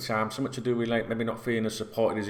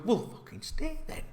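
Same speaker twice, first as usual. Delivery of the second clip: exasperated retort. Real, not acted. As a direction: fling it back at him, fed up. Mocking the player's fake loyalty.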